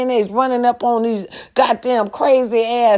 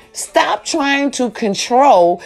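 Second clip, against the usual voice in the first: slow emphatic; slower than usual. Shown as a demonstration. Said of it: "One more time".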